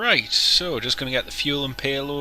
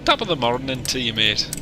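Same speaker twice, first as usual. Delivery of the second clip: mock Irish greeting; 5 dB louder than usual. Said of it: "Oh, wait, wrong one".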